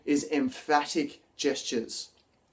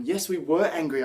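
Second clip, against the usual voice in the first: raised, emphatic angry claim; genuinely angry; 3 semitones higher than usual. Shown as a demonstration. Teacher demos a believable angry statement, raised and emphatic. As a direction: sell it like you truly mean the anger. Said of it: "But if you're saying".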